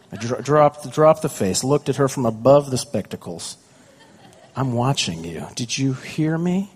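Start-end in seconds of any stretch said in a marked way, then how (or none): 4.6-6.7 parent warning. Retold or imitated. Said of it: "I turned into my parents".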